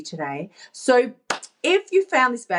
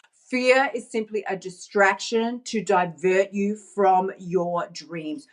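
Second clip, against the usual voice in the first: slow, deliberate reread, sinking at the close; reading a statement; 2 semitones lower, slower than usual. Real, not acted. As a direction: read it out like a motto, word by word. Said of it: "I'm just gonna read it to you".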